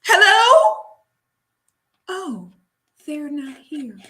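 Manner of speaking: high, loud hello then slow sly reply; high calling hello, slow mocking answer; movie line impression. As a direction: quote the film, calling out then deflating. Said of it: "What movie is that".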